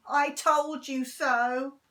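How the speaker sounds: slow, loud gloating; dead boy gloating slowly; scream. Acted. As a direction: drag out the told. Henry's imagined scream.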